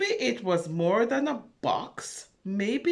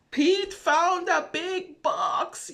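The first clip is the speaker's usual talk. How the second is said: whisper; 9 semitones higher, 3 dB louder, slower than usual. Acted. Reveal after page turn.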